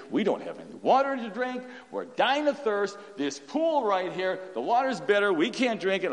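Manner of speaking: hammed-up grumbling about bitter water; mock complaining. Preacher mimicking thirsty Israelites grumbling, mild mock whine. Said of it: "They murmured and complained".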